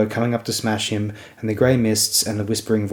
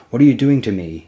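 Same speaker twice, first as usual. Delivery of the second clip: tearful; 2 semitones higher, 5 dB louder than usual. Acted.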